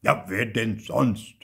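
loud, slow rhetorical question; indignant uncle, drawn out; stern retort. A narrator's reading. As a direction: throw the blame back loudly.

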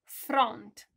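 loud teacher demo. Shown as a demonstration. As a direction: announce the word big. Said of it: "spunem front".

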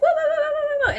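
high, loud chorus of whoas; high excited mock whoas; crowd whoa. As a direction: call it out like the catching crowd. Crowd catching surfer.

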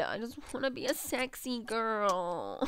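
slow, drawn-out mock longing; put-on yearning voice. Player voices their game goal, put-on yearning. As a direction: stretch it out as a silly wish. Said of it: "saying that with that voice".

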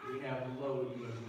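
"low emotions" dropped in pitch. Shown as a demonstration.

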